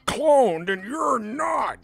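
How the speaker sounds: loud, high mock yell; imitated yelling. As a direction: mimic a sore loser yelling in chat. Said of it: "He was yelling at me in dead chat".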